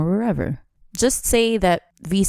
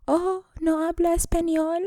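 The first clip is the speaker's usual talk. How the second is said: mock confused reply; 13 semitones higher than usual. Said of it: "and I was just like".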